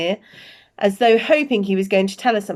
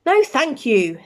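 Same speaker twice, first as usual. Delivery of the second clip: cold refusal; 5 semitones higher, 4 dB louder, slower than usual. Acted. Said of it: "said Professor McGonagall coldly".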